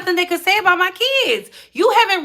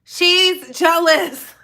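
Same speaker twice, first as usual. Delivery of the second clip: slow emphatic, a touch higher; 3 semitones higher, much slower than usual. Real, not acted. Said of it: "She is jealous".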